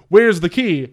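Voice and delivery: retold robber losing patience; mock yelling. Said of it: "He starts, like, yelling".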